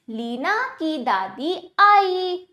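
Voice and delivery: लीना की दादी आई joined, a little slow; measured model reading, आई held at the end. Shown as a demonstration. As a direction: read लीना की दादी आई as one connected sentence. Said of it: "अब वाक्यों का उच्चारण करते हैं".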